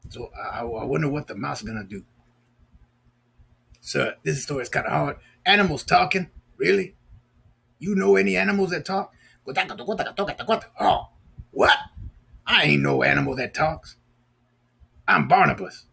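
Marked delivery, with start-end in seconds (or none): 3.8-9.1 puppet voice. Pretend. Puppet voice questions host. 10.8-15.9 indignant puppet. Pretend.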